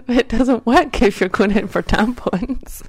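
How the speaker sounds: loud and slow, spelling it out; emphatic loud. Real, not acted. Insisting on the joke, loud.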